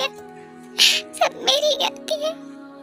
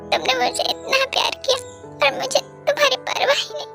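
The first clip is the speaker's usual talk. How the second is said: higher-pitched, grief-stricken lament; anguished self-blame; 4 semitones higher than usual. Acted. Guilty over the one who loved her, anguished. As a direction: break down in guilt.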